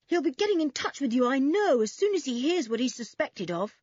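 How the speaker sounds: put-on high-pitched, pleading forlorn boy. A narrator's reading. Toby hoping to hear from his cousin, forlorn. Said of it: "asked Toby forlornly".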